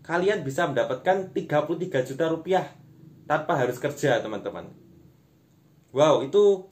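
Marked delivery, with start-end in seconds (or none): 5.9-6.7 slow, loud amazed wow. Real, not acted. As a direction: gasp out a big wow. Amazed at money.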